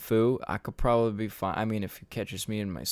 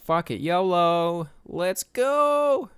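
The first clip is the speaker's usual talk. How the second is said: high, loud mock hype cry; reckless yolo; 8 semitones higher, 5 dB louder, much slower than usual. Waking up on the beach, hyping himself up with a high cry. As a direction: pump yourself up, throw caution away. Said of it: "I was like".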